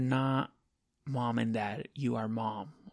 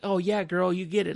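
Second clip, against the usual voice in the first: mock cheerleading; 5 semitones higher, 4 dB louder than usual. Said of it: "And I was like".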